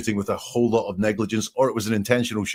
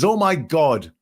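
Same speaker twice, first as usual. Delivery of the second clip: imitating his gasping shock, louder and higher; lightly acted shock; mock shock; 6 semitones higher, 4 dB louder, slower than usual. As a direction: voice his alarm. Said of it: "He says".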